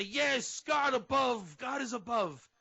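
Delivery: hammed-up believer crying out yes; eager affirmation. A naive worshipper answering the name, mock zeal. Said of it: "And you would say".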